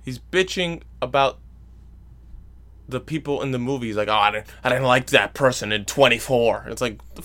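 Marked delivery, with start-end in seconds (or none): 4.1-6.7 mock grouchy grumble, a touch louder; grumbling complaint. Husband griping about actors during previews, mock grumbling. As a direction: imitate a griping moviegoer. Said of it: "he's just bitching".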